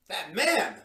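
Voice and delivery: alarmed. Acted. Visitor spots the masked intruder.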